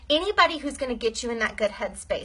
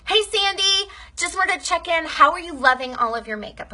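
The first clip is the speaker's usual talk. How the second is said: higher, chirpy check-in voice; friendly check-in message; 5 semitones higher than usual. Shown as a demonstration. Modelling a message to customer Sandy, a higher chirpy check-in. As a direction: sound like a bright friend checking in. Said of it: "message your customers and say this".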